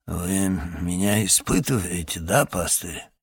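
a touch of a grumpy boatman muttering; sullen grumble. Acted. Ferryman suspecting the pastor is testing him, sullen. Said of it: "угрюмо буркнул паромщик".

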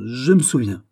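unsure, wavering assent; hesitant. Acted. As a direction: claim the memory tentatively. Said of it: "répliqua le gouverneur hésitant".

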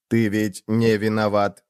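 ordinary delivery

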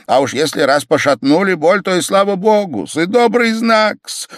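high, elated cry climbing to the end; joyful exclamation. A narrator's reading. Pavel seeing the pain begin to ease, joyful cry. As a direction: cry out with rising joy. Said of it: "вскричал Павел Павлович и радостно".

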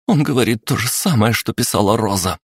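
выше, торопливо; пролепечи дальше; лепечущий голос Аллы. Acted. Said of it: "залепетала Алла". (Алла лепечет толпе)

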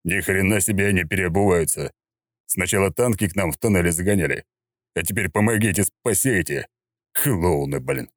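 snorting contempt; scoffing gruff uncle. Acted. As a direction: sneer at the Swiss. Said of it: "фыркнул".

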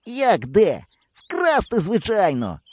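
put-on a boy proposing theft without hesitating; bold answer. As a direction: blurt it as obvious.

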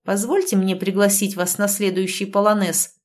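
ordinary delivery

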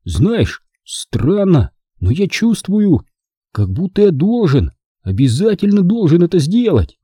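put-on high, earnest boy's voice; determined young son; boy Charlie confiding. A narrator's reading. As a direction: confide it with growing conviction.

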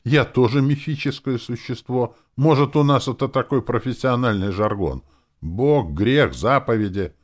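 high, loud self-defence; indignant demon. A narrator's reading. Demon justifies her religious jargon, indignant.

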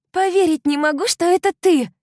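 high, loud cry of joy; delighted shout. A narrator's reading. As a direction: shriek with delight at seeing her friend. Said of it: "восхищённо закричала девушка".

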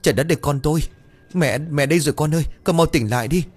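mild tearful wail. A narrator's reading. Mother begging her unconscious son to wake, mildly tearful. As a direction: plead with a touch of crying. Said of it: "mẹ nó khóc lóc".

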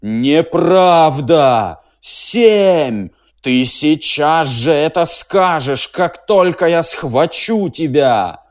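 loud, slow, drawn-out machine roar; drawn-out machine cry. A narrator's reading. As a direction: stretch the cry out like a raging machine. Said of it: "протяжно крикнула". (машина протяжно кричит)

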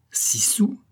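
high-pitched incredulous echo, rising at the end; exclamation outrée. A narrator's reading. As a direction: exclaim it as the scandalised aunt. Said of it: "s'écria la tante". (écho outré, aigu et montant)

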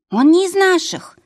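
high, loud desperate scream; frantic scream. Acted. Woman screaming to the bandits, high frantic scream. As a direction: scream it to save yourself. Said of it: "закричала одна женщина".

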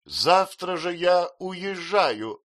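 slow, loud, drawn-out threat; offended spinster. A narrator's reading. Miss Murdstone threatening her brother to leave, wounded. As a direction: announce it with wounded pride.

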